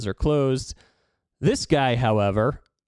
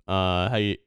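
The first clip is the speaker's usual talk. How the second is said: choppy dropping call audio; stream quality dropping; 4 semitones lower than usual. Real, not acted. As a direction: voice breaking up online. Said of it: "you're cutting out a bit".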